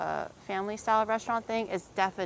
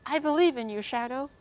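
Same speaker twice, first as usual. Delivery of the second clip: louder, higher rallying cheer on believe; pep-talk cheer; 5 semitones higher, 4 dB louder than usual. Shown as a demonstration. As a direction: pump him up like a coach. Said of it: "Step up".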